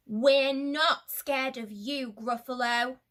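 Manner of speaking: bold defiance. Acted. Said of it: "We're going to say it together".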